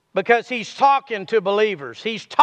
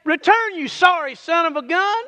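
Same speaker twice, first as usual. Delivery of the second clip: high scornful Return, you sorry son of a gun; mock scold rising on gun; mock harsh call; 6 semitones higher than usual. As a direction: sneer it like a scolding. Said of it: "he didn't say".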